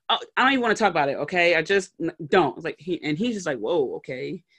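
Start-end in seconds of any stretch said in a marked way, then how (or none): 0.1-2.6 irritated brush-off. Retold or imitated. Wife snaps after bad workday. 3.6-4.4 taken-aback husband. Retold or imitated.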